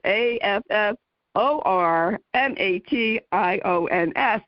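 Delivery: A F F O R M A T I O N S said letter by letter, slow and even; spelling letters. Shown as a demonstration. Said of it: "I will spell it".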